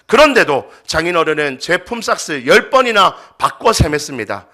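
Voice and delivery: loud, relentless dramatic tirade; fiery, arguing anger. Acted. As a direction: pour out pent-up grievance without stopping. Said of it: "불같이 화를 내며 이렇게 따지기". (불같이 화내며 쉬지 않고 따지기)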